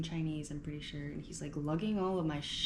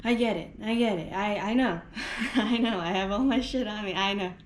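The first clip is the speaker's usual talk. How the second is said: laughing it off; 6 dB louder than usual. Real, not acted. Laughing at her own chaos.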